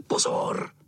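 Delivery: sharp voiceless call; whispered shout. A narrator's reading. Fourth boy calls the throw in a loud whisper. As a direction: shout it but only in a whisper. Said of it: "křičel tiše".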